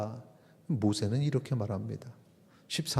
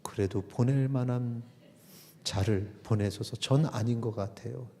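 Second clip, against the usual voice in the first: reluctant Moses. Acted. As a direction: lightly voice Moses backing out. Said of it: "끄떡끄떡하더니".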